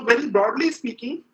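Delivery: "broadly speaking" lifted a little and leaned on; stress on broadly speaking. Real, not acted. Lecturer hedging a comparison for his audience, gently stressing "broadly speaking". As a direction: mark "broadly" as a hedge with a slight rise. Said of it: "I emphasize the word broadly speaking".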